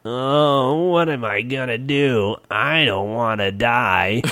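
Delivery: lightly voiced despairing goblin; whiny goblin, slow on the last line; goblin whine.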